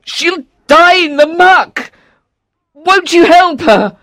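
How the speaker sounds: high, slow, strained cry for help; desperate shout. A narrator's reading. Trapped father watching daughter sink, high desperate shout. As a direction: shout in panic, drawing the words out. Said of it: "he shouted".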